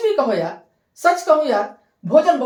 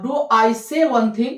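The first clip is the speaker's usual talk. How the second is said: slow demo; 3 dB louder, much slower than usual. Shown as a demonstration. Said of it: "एक बात बोलो".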